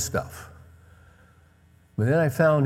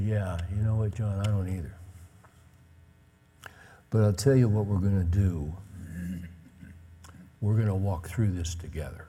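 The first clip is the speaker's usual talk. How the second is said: tender; 3 semitones lower than usual. Retold or imitated. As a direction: gently stand by a struggling son. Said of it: "It, it was tender".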